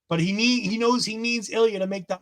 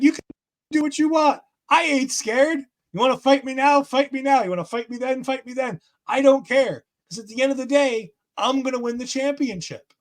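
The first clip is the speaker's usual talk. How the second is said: mock Baron taunt; 5 semitones higher than usual. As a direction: throw the dare at him, cocky and raised. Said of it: "And Baron's like".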